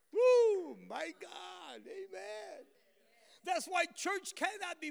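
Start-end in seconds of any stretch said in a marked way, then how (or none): 0.1-2.7 high, loud whoop of joy; excited shout of praise; exultant whoop. Real, not acted. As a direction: let out a joyful holler. Exultant cry after sermon climax.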